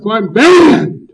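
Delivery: drawn out and loud, each word weighted; slow heavy statement. Real, not acted. At the meeting, announcing he is banned, slow and heavy. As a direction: land it slow and heavy like a verdict.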